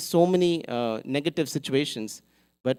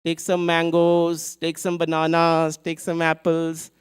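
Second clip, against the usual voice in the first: lighter, slower vendor's call; calling out fruits; 2 semitones higher, 4 dB louder, slower than usual. Acted. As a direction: hawk the fruit again as she walks. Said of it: "And she moves on".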